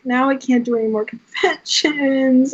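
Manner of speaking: playful whine with a laugh; mock sad. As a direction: lament it half-laughing, stretching the last word. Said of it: "I was so sad".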